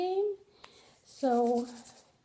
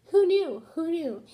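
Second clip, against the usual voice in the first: surprised exclamation; 6 semitones higher, 5 dB louder than usual. Real, not acted. Exclaiming at the twist.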